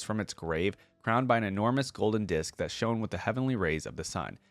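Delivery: steady storyteller read of legend lore; story narration. Acted. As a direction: read it like an epic tale to viewers. Reading game lore aloud.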